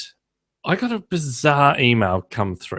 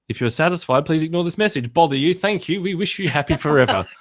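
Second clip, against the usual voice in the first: mock repeat of email; 5 semitones higher than usual. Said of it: "it just repeats over and over".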